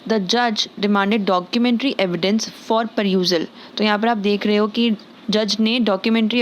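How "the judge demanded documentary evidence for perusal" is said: very slow, careful dictation; slow teacher's dictation of an English sentence; slow example read. Shown as a demonstration. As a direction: read each word out slowly for the learner. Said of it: "sentences में मैंने इसको कुछ इस तरीके से इस्तेमाल किया है".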